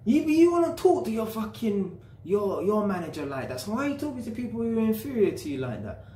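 high-pitched indignant retort in retelling; imagined outraged telling-off; indignant challenge. Retold or imitated. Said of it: "I'm thinking".

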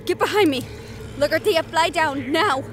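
loud commanding calls; urgent battlefield orders; shouted orders. Acted. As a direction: bark the commands. Issuing orders mid-combat.

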